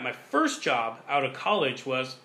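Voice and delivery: catching on water mid-sentence; throat catching on a sip; swallowed wrong way. Real, not acted. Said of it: "I'm just over here choking on water".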